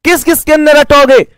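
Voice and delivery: mock a student for rote learning; mock exasperated retort. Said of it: "मैं कहता हूं".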